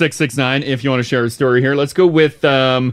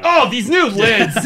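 mock exasperated outburst, drawn out and higher; retold cursing; 6 semitones higher, slower than usual. Host imitates co-host cursing new cup lids, mock exasperation. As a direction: imitate her slow, high-pitched cursing at the lids. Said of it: "Cursed out Tim's for a bit".

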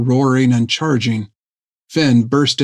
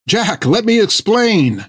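higher, slow pleading cry; 9 semitones higher, slower than usual. Acted. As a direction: Finn cries out to the raging Jack, pleading and higher. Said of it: "cried Finn".

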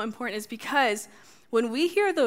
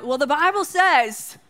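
louder, higher, hammed-up preachy scold, laughing through it; mock self-righteous voice quoting scripture; mock judgmental; 4 semitones higher, 6 dB louder than usual. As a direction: play the smug Bible-quoter for laughs. Mocking a judgmental churchgoer.

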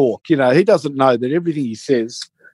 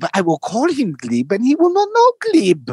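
rising to high triumphant claim; hammed-up gloating; mimicking him; 5 semitones higher than usual. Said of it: "He goes".

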